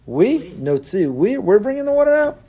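high, loud boastful "we"; proud self-important. Retold or imitated. Moshe claiming credit for the water, loud and proud. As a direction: puff yourself up. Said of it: "all of a sudden".

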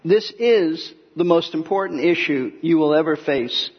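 ordinary talk, nothing marked

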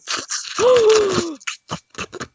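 anteater. Pretend. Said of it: "You sounded like an anteater".

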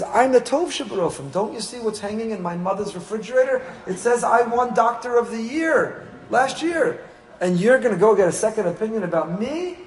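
arrogant doctor. Retold or imitated. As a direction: play the doctor who thinks he's the best. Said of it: "He says".

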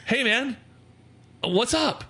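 high, laid-back crooner-style greeting; lightly voiced lounge singer impression, mid-act; impersonator guy. A singer impersonator greets him.

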